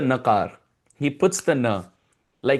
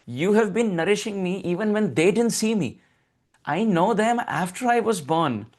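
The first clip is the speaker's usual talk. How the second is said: put-on coaxing child; 5 semitones higher than usual. Child Krishna coaxing his mother.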